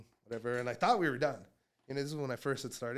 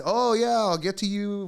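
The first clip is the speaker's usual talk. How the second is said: drug dealer brush-off; 7 semitones higher, 9 dB louder than usual. Retold or imitated. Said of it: "old school drug dealer".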